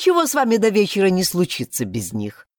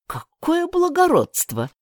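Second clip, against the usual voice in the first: higher, slow mock praise; ironic; 12 semitones higher, slower than usual. Kirian mocking the sheriff's nobility, ironic and slow. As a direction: praise him with heavy irony. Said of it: "с иронией прокомментировал Кириан".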